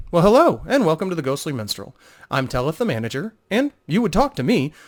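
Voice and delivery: innkeeper Telith greeting a guest on a busy night; cheerful innkeeper. Acted.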